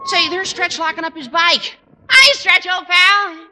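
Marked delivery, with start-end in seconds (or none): 2.1-3.5 calling out. Acted. Walter calls out across schoolyard.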